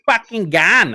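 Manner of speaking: brash donkey, tossing it off; cheeky donkey. Acted. GM repeats the donkey's line to the party, high and brash. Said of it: "What's the donkey saying?".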